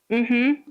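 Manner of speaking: small demonstrative mm-hmm of agreement; agreeing hum. Shown as a demonstration. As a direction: hum along as if listening. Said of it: "like, sounds of agreements here and there".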